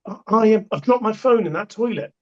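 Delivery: high, fretful woman's plea; flustered lady. Retold or imitated. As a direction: pitch it up like a worried lady. Lady retold, distressed.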